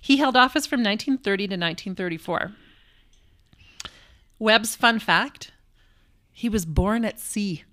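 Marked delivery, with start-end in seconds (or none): 4.4-5.5 announcer voice. Acted. Announcing a recurring segment.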